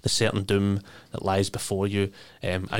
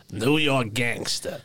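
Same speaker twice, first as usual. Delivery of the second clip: New York gangster voice; 3 semitones higher, slower than usual. Shown as a demonstration. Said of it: "Do it for me".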